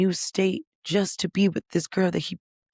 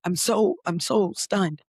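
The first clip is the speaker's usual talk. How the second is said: stunned; 2 semitones higher than usual. Retold or imitated. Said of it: "And I'm just like".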